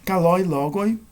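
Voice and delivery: "Kaloi" stressed on LOI, leading into "logoi"; grave-accent example. Shown as a demonstration. Teacher showing grave accent examples, "Kaloi" stressed on LOI. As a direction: put the weight on LOI in "Kaloi". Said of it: "só pode ocorrer na última sílaba".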